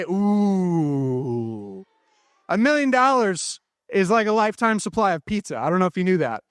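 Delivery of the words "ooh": low drawn-out ooh of awe; ooh sound. Shown as a demonstration. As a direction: give a long low impressed ooh.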